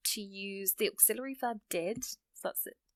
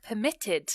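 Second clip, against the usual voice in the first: "permitted" with subtle emphasis on "mit"; subtle second-syllable stress; 3 dB louder than usual. Shown as a demonstration. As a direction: lightly lean on the middle syllable of "permitted". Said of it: "hear the emphasis on the end".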